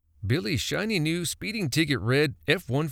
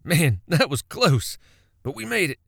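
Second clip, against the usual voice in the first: relieved whoop, louder then high; excited shout; 6 semitones higher, 4 dB louder than usual. A narrator's reading. Billy exits the lane and cheers to Buddy, excited shout. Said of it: "Billy excitedly shouted".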